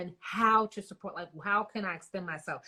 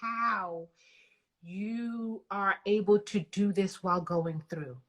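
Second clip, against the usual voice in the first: real near-tears, halting with long pauses; fighting back tears. Real, not acted. Host moved by guest's hardship, fighting back tears. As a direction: struggle to keep the tears back, words stalling. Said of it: "almost in tears right now".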